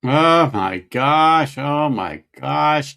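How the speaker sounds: slow, drawn-out oh my gosh; overwhelmed by the flavor; loud slow amazement; savoring awe. Real, not acted. Reacting to the whisky taste.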